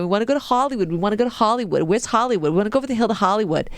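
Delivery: put-on kids' pestering in a rough Boston accent; bad Boston accent. Visiting kids begging their cousin for Hollywood, bad Boston accent. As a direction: badly imitate Boston kids. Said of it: "that's my bad Boston accent".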